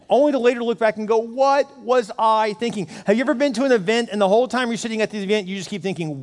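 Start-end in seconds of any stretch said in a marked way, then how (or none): 1.2-2.9 slow, drawn-out self-reproach; acted regret, word by word; exasperated regret. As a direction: stretch each word in mock disbelief. Looking back with regret.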